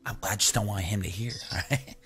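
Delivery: hushed, secretive explanation trailing into a whisper. Pretend. Player explains he doesn't want the guide to hear, whispering. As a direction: keep it low so he can't overhear. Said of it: "Why are you whispering?".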